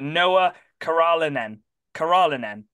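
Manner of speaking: Karalanen sounded out as ka-RAH-la-nen; tentative go at Karalanen, stressed on RAH; careful pronunciation attempt. Real, not acted. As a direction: try the name Karalanen carefully, then repeat it. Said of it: "I'm gonna try and pronounce it".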